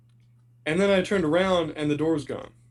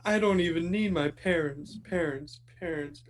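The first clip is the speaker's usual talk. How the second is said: fading echo. Retold or imitated. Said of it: "where the kid's like".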